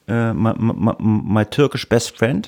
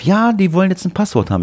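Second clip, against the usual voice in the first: higher, puzzled mum voice; imitating his mother; 8 semitones higher, 3 dB louder, faster than usual. Son imitates mother's confused phone reply, higher voice. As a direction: sound lost and a bit fretful.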